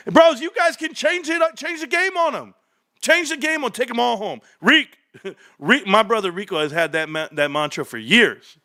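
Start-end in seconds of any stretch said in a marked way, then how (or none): 0.1-4.4 high, laughing cheer to the bros; laughing hype. Real, not acted. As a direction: whoop it up while laughing.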